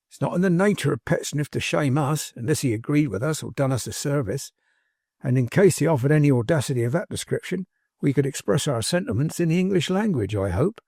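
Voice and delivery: lightly folksy servant holding forth; a hint of homespun indignant oratory; lightly voiced fervent manservant. Manservant holding forth on Pecksniff, mildly fervent. Tapley in full eloquence.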